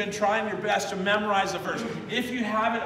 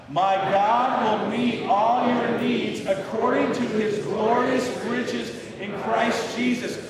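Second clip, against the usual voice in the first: believing it more; 3 semitones higher, slower than usual. Shown as a demonstration. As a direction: proclaim it like you truly believe it. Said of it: "let's try and believe it a little bit more".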